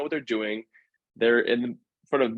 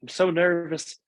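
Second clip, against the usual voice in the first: higher, fretful voice for his nervous dance partner; imitating Kelly; 4 semitones higher than usual. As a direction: play her anxious and pleading. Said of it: "whenever she'd be like".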